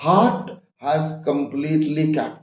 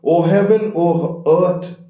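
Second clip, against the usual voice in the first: raised, higher cry to the heavens; hyper outburst; 4 semitones higher than usual. Acted. Ferdinand swearing love to Miranda, excited cry. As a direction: call out to heaven and earth, a bit carried away. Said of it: "he gets a little hyper".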